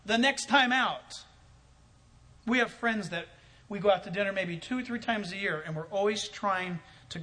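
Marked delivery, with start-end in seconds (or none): 0.0-1.2 slow, louder mock resolve; hammed-up determined thought; competitive inner voice. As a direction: think it like a rival plotting. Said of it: "recipient is thinking is".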